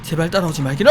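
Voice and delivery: ordinary talk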